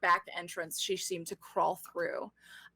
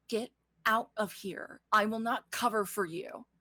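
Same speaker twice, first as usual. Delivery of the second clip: firm, lightly acted warning; stern dismissal; 3 semitones higher than usual. Ystira orders Gemma out, stern dismissal. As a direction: send them away, firmly.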